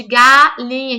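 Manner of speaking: "galinha" with GA held, then a short break; first syllable set apart. Shown as a demonstration. Teacher matching first sounds, "galinha" with GA picked out. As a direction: stretch the opening GA of "galinha". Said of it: "sons que começam com G".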